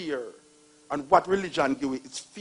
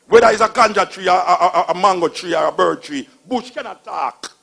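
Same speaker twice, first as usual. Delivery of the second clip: loud laughing rant, higher; laughing loudly; 3 semitones higher, 9 dB louder than usual. Real, not acted. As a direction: laugh while you shout it out. Mocking belief, laughing loudly.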